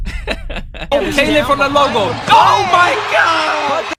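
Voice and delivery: high, slow, laughing shout. Real, not acted. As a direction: crack up and yell it out. Cracking up at the clip.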